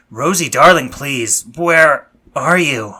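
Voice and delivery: loud, desperate call into the distance; slow, high, frantic calling. Acted. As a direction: shout for her, voice rising and pleading. Calling out for missing Rosie.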